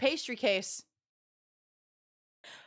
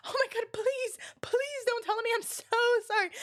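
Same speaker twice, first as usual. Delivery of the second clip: high, squeaky, giggling apology; pleading through laughter; 10 semitones higher than usual. Retold or imitated. Storyteller replaying her apology to the coworker she hit, laughing plea. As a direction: beg forgiveness while cracking up.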